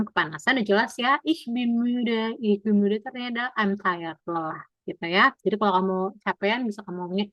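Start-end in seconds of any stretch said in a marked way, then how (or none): 1.2-2.3 each word slow and spaced for learners; slow model phrase. Shown as a demonstration. Teacher to class, first model of the phrase, very slow. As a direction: drill it slowly so the class can copy. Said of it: "teacher models the phrase".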